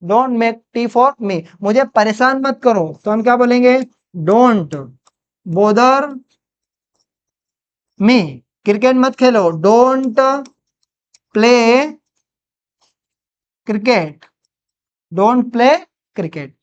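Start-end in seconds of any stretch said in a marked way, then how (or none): 4.2-8.2 each word alone, long pauses between; word-by-word dictation. Shown as a demonstration. Teacher translating a negative command for students, word-by-word dictation. 9.5-14.1 long pause after each word; word-by-word dictation. Shown as a demonstration. Teacher building a negative sentence for students, word-by-word dictation.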